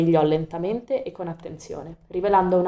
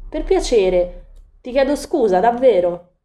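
higher, louder urgent plea; a girl begging the cat not to leave, higher and louder; pleading; 5 semitones higher, 6 dB louder than usual. A narrator's reading. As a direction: beg him to stay, voice lifted high. Coraline begs the cat.

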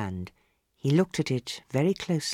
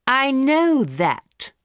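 very slow, higher, louder impatient retort; 11 semitones higher, 6 dB louder, much slower than usual. A narrator's reading. Hostess loudly losing patience with the palmist. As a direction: hammer each word home. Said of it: "said Lady Windermere loudly".

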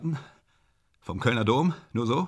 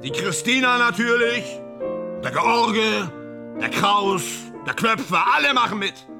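euphoric roll call; 5 semitones higher than usual. Acted.

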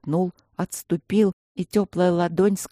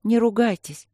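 gentle request; 6 semitones higher than usual. A narrator's reading. Princess soothing sulking guardians, higher pleading tone. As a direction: ask them nicely, in a higher voice. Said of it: "попросила принцесса".

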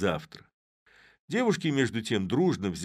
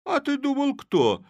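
smirking; 8 dB louder than usual. A narrator's reading. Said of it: "усмехаясь".

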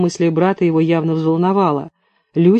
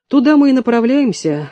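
higher, chuckling through the line; 6 semitones higher than usual. A narrator's reading. Ravil joking with friends about heading to a restaurant, laughing. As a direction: toss it off with a laugh. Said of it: "хохотнул Равиль".

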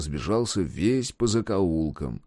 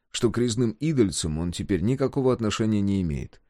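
plain reading voice

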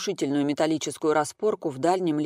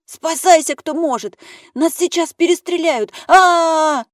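panicked scream; 13 semitones higher, 10 dB louder than usual. A narrator's reading. Panicked screaming at captors' arrival.

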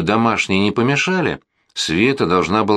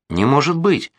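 shouting; 7 semitones higher than usual. Acted. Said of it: "закричала я".

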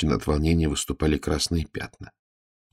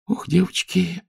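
sorrowful; 12 semitones higher, slower than usual. Acted. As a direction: grieve over the girls. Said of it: "горестно покачала головой".

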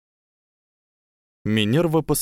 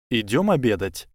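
cautious. Acted. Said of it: "осторожно предложил Гарри".

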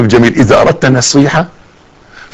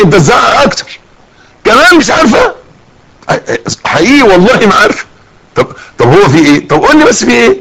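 confused pleading wife; 7 semitones higher than usual. Acted. Wife confused by husband's yelling.

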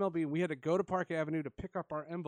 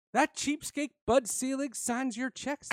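teasing president; 8 semitones higher, 5 dB louder than usual. Retold or imitated. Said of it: "And he goes".

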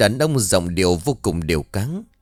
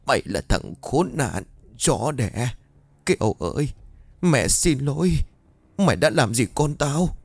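hateful curse; 5 semitones higher than usual. Acted. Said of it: "như có vẻ cực kỳ căm hận".

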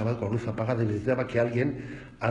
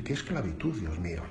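mock lament; 4 semitones lower, 5 dB quieter than usual. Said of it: "uno dice".

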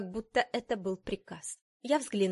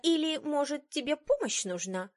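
venomous; 7 semitones higher than usual. A narrator's reading. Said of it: "В её голосе было больше яда".

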